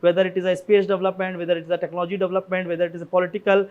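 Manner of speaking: English sentence read out slowly and deliberately, word by word; measured, careful read of a sample line; slow dictation. Shown as a demonstration. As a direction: dictate it like a model answer. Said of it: "suppose ये लिख लिए कि".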